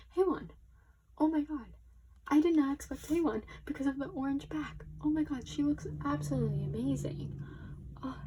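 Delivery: high, loud delighted greeting; excited squeal. Real, not acted. Fan greeting her idol's photo card, squealing.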